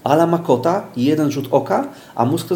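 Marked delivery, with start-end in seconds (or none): 0.0-0.8 "Ala ma kota" as one connected phrase, lifted pitch; words run together. Shown as a demonstration. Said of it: "patrzeć na kilka słów jednocześnie".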